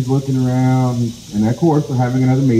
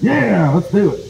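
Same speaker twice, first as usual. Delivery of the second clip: hyped-up crowd cheer; 6 semitones higher than usual. Acted. Animals answering the call to war, hyped up. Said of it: "They're hooting and hollering".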